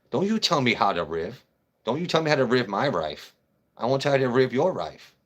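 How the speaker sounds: light mock Asian accent, r swapped for l-like sounds. Mocking the man's Asian accent back at him. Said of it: "white guy with an Asian accent".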